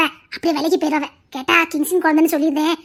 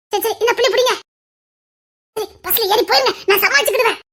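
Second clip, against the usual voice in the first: laughing; 3 semitones higher than usual. Acted. Hurried plotting while laughing.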